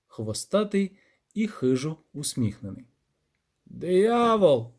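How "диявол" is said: put-on old granny pronouncing. A narrator's reading. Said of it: "проказала бабця".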